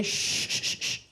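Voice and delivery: soft breathy shushing; hushing. Shown as a demonstration. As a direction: hush the audience to listen. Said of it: "if you listen very carefully".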